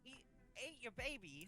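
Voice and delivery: high, slow disbelieving question; can't believe what he's hearing; stunned high echo; incredulous. Acted. Incredulous player asks back.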